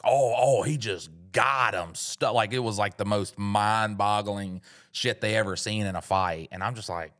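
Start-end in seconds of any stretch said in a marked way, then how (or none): 0.0-1.9 crowd gasp. Retold or imitated. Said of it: "everybody went like".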